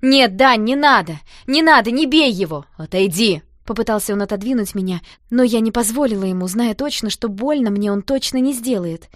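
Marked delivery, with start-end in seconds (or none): 0.0-3.4 loud, hurried plea to stop the fight; hurried pleading. Acted. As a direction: rush the words out, begging him not to hit. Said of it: "спешно стала твердить". (громко, торопливо умоляя)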